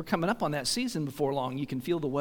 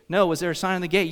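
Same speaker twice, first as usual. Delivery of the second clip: surprised question; 3 semitones higher, 6 dB louder, faster than usual. Retold or imitated. Visitors answering the homeowners.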